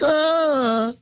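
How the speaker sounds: high, drawn-out mock groan; imitated squeamish moan of disgust; mimicked recoil. Trendy dropping the magazine, mock disgusted groan. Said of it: "and dropped it, like".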